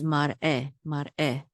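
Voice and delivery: mar eh with the weight on the final eh; stress on last syllable. Shown as a demonstration. Teacher pointing out the accent mark, last-syllable stress on mar eh. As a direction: lean on eh at the end of mar eh. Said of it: "the accent is on this last syllable".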